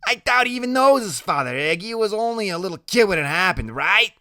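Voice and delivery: very high, excited gossip voice; Loretta, nosy. Acted. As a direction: gossip away in a high character voice. Loretta speculating.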